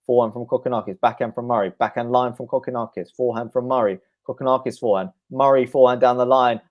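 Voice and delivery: fast shot-by-shot tennis call; a quick commentator's rally call; live play-by-play. Acted. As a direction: rattle off each stroke as it's hit.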